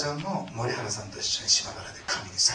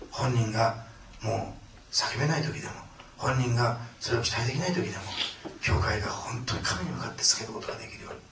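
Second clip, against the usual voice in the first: closing prayer. Acted.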